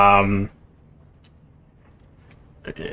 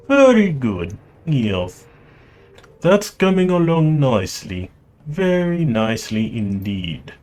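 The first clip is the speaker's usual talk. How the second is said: put-on Russian accent; 4 semitones higher than usual. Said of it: "I will try to do his accent".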